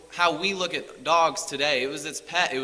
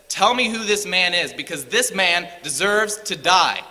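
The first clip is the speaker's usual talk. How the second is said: louder, raised, the second half slowed down; angry David; 3 semitones higher, 5 dB louder than usual. Retold or imitated. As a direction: demand the man's name in outrage. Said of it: "And so David's angry".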